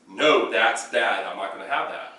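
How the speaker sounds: calm stern dog correction; firm correction. Shown as a demonstration. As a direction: scold a dog calmly. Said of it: "But it's".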